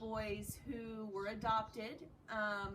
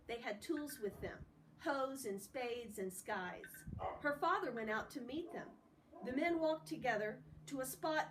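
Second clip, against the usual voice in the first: story narration; 3 semitones higher than usual. Acted. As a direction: read the chapter to students, clear and steady. Reads novel aloud to class.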